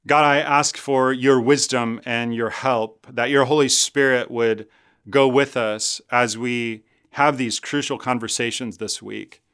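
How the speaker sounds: slow, earnest closing prayer. Real, not acted. Pastor praying for his congregation, slow earnest prayer. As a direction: pray it slowly, fading toward the end.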